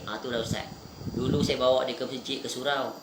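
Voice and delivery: low, soft, subdued quote of a grieving father; understated sadness, trailing softly downward; retold tearful confession. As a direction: quietly voice a parent's sorrow, without sobbing. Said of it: "Nangis. Kenapa nangis?".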